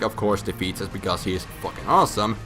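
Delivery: ordinary talk, nothing marked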